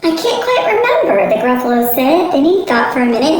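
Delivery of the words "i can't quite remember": high, giggly evasive answer; sheepish laughing dad. Acted. Father dodges his child's question, giggling. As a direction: laugh it off, can't remember.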